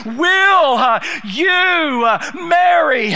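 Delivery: urgent insistence. Acted. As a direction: refuse to budge until answered. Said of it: "There's an urgency here in the servant's voice".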